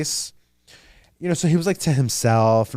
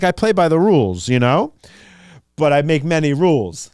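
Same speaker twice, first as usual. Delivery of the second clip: higher, louder smug villain voice, mocking; mock Jigsaw villain; 4 semitones higher, 5 dB louder than usual. Jigsaw gloating to a victim about his rules, mock villain voice. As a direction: play the gloating puppet-master laying down his rules.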